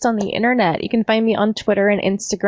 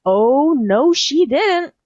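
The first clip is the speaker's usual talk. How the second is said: sassy emcee intro, rising higher on the end; playful burlesque emcee call; sassy MC announcement; 4 semitones higher, 3 dB louder, much slower than usual. Pretend. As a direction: announce it like a cheeky burlesque host. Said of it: "rely on the M C to deliver it correctly".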